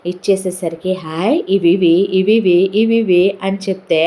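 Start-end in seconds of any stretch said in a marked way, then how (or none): 1.0-3.2 put-on excited child. Child delighted at sweets plate.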